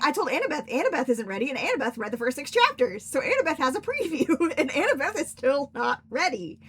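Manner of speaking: loud, high, animated insistence; emphatic warning. Real, not acted. Host warning listeners through Annabeth's example, loud and emphatic. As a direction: hammer the point home with rising excitement.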